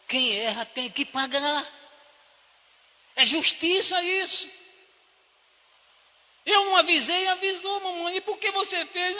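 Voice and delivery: high, loud stern mother voice; a mother lecturing her guilty son, high and forceful; scolding mother. Retold or imitated. Mother scolding her son, high and loud.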